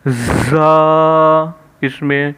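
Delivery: زا drawn out slowly, voiced from the chest. Shown as a demonstration. Teacher showing a chest-voiced letter. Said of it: "سینے سے آواز".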